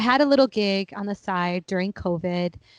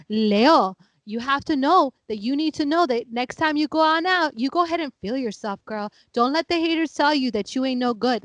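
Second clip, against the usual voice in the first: astrologer voice; 2 semitones higher than usual. Retold or imitated. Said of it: "be like".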